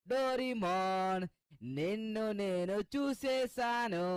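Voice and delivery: hollering a bluff across the house; calling out. Acted. Seeker bluffing Doraemon out of hiding, slow drawn call.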